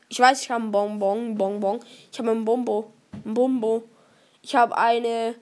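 talking around a cough drop; words slurred by candy; mouth full. Real, not acted. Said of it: "da hab ich jetzt so einen Bonbon gegessen".

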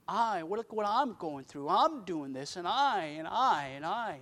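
lightly mocking, each "I" swooping up; a hint of self-pitying complaint, mocked; mock self-absorption. Pastor mimics people focused on themselves, mildly mocking.

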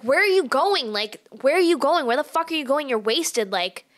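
mild mock yell of a worked-up date; retold yelling. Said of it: "he was yelling at me".

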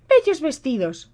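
high, slow, demanding; stepsister voice. A narrator's reading. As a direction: ask sweetly for dresses. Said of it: "dijo una".

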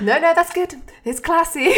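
high laughing delivery. Retold or imitated. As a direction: laugh through a smug quote. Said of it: "He said".

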